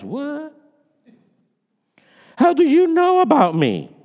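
high, loud shocked question; astonished. Acted. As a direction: blurt it out in astonishment. Astonished Nathanael.

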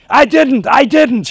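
high, loud whiny repeat; high whiny repeated denial; whining protest. Retold or imitated. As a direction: bleat it out like a caught kid. Driver protesting the sentence.

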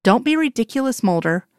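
dismissive eye-roll tone; exasperated. Acted. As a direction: brush off his worry. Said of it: "she just rolls her eyes".

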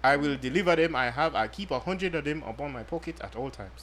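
put-on understated African accent, formal sales pitch. Host pitches condoms to female listeners, light mock African accent. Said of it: "You sound African right now".

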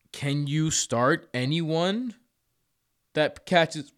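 hiccuping mid-question; words broken by hiccups. Real, not acted. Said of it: "I have the hiccups all of a sudden".

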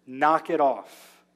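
Jesus telling the storm to stop, calm and commanding; stern rebuke. Retold or imitated. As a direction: shut it down like a parent. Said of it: "rebuked the wind and the waves".

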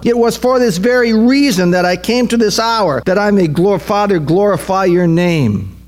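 fervent declaration, pitch gradually coming down; high-pitched sermon climax easing off; impassioned preaching. Real, not acted. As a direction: declare it with conviction, slowing at the end. Preaches with raised intensity.

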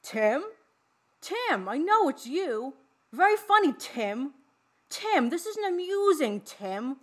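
high, loud, slow campy voice; hammed-up campy Bub, half-teasing Tim; Bub impression. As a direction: camp it up like a goofy teen killer victim. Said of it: "I'm gonna do my best impression".

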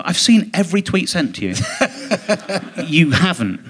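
reenacted phone call, laughing through it; laughing retort. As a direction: laugh at the absurd claim.

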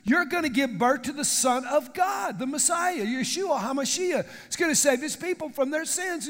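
bright herald bringing great news, modest lift; angel Gabriel. Acted.

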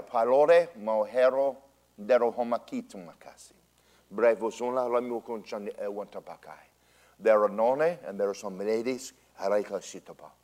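fluent ecstatic syllables in a preacher's cadence; speaking in tongues. Real, not acted. Preacher gives a tongue to the congregation, speaking in tongues. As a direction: pour out unknown syllables as in prayer.

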